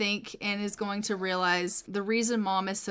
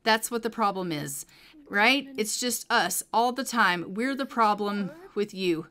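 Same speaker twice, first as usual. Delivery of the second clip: impish pestering. Acted. Son accusing mom of not wanting them around, lightly impish needling. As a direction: keep pestering, stretching the accusations a little. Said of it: "he's gonna, like, impishly pester her".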